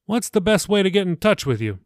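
a hint of a cheerful pastor; pastor Billy. The pastor says goodbye to Jacob, lightly voiced and friendly. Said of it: "Billy asked".

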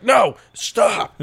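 high, loud mock-horrified yelp; imitated terrified protest. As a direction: imitate someone recoiling in panic, high and loud. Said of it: "she'll open 'em and go like".

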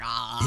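long, low open "ahhh"; low mock moan; drawn-out mock "ah". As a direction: let out a drawn-out, put-on "ahhh". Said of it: "I'd have to be like".

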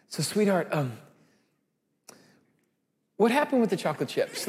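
soft, careful asking; gentle question. Retold or imitated. Father gently asking his daughter about the chocolate chips, soft. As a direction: coax the truth out softly.

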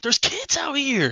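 high, drawn-out reenacted shout; re-create an indignant dad yelling at a driver. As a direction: shout it slowly like a protective dad. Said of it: "got my dad voice in".

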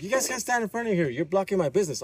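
imitating the angry owner. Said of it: "He was mad".

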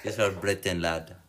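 badly faked British accent; mock British accent that slips toward Hindi. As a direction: put on a hammy British lad accent. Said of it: "you sound like my Hindi cousin".

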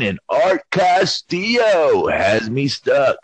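lightly voiced slow Ned Flanders tech guy; a hint of Ned Flanders, drawn out; Ned Flanders impression. Podcaster mimicking Avi's sign-off, hint of Flanders. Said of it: "He sounds like Ned Flanders".

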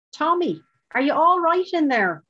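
loud, high call to someone behind a door; calling through a door. Acted. Guard calling through the neighbour's door, loud and high. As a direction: raise your voice so he hears you inside.

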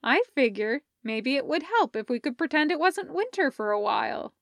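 Parker's voice. Acted. Parker explains her beach idea.

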